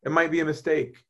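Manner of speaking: easy, unbothered reassurance to yourself; relaxed and easygoing. Retold or imitated. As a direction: shrug it off as if nothing could go wrong. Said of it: "You'll be more at rest just being like".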